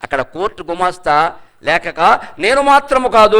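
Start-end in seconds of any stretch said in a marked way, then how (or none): 2.4-3.4 నేను మాత్రము కాదు quoted higher and louder, stress on మాత్రము; mock-insistent denial, stress on మాత్రము; quoting the denial. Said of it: "అని రాసిపెట్టి సంతకం పెట్టించుకో అంటాడు".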